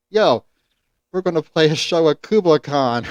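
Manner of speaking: high, eager fanboy gush; excited fanboy. Retold or imitated. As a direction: gush like a starstruck fan.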